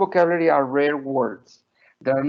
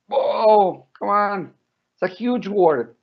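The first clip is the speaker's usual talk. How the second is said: higher-pitched imitation of an amazed child; mock amazement; 5 semitones higher, slower than usual. Mother voices toddler daughter hearing a huge word, mock amazed. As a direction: lightly play a small child's disbelief.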